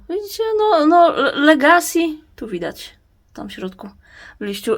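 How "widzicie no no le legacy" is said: laughing. Real, not acted. Laughs at plant name.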